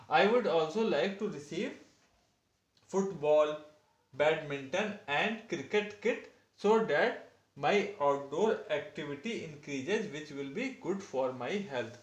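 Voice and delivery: slow dictation of a model answer; teacher reading an example answer slowly; reading aloud. Acted. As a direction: read it slowly for the class to copy.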